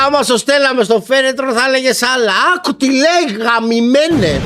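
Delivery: high, indignant outburst; outraged. Real, not acted. Streamer outraged at the coffin remark, angry. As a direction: throw the words back in anger.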